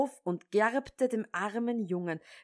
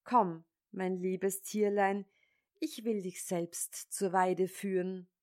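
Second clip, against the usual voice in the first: zärtlich; 3 dB quieter than usual. Acted. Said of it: "liebkoste die Ziege".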